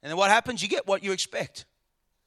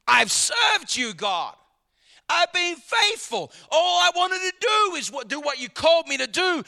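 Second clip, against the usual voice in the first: complaining to God; 5 semitones higher than usual. Retold or imitated. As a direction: plead your case to God as if wronged. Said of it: "Paul could have said".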